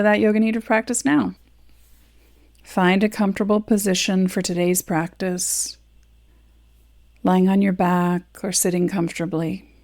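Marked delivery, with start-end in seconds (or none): 2.6-9.7 gently paced meditation guidance with long pauses; measured relaxation-session voice; guided meditation. Acted. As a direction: guide them into rest, leaving space between phrases. Begins guiding the meditation.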